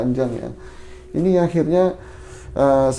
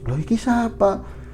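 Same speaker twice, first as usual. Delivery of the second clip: startled questioning; 6 semitones higher than usual. Retold or imitated. Strange woman questioned in dream.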